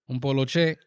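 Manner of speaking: "Un poloche" said in a Dominican Spanish accent, po-LO-che. Shown as a demonstration. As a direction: drop the English, say "Un poloche" the Dominican way. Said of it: "polo shirt with the Dominican accent".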